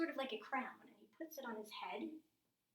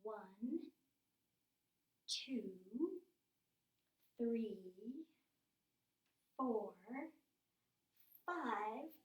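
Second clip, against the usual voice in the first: put-on counting along with children; much slower than usual. Shown as a demonstration. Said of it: "Maybe we can do that together".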